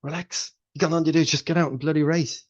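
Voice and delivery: high and loud, breezy and dismissive; jolly the tense runner along; brash pep talk. Retold or imitated. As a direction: coach telling an anxious athlete to relax, high and loud. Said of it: "he was like".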